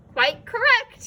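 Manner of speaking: high, loud triumphant shriek. A narrator's reading. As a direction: crow it out in victory. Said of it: "he shrieked triumphantly".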